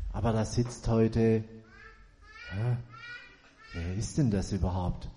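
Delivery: put-on grumpy old man. Old man grumbles about newcomer.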